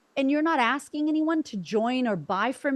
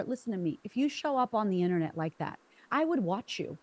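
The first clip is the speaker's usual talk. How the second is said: earnest advice. Retold or imitated. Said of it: "And I said to her".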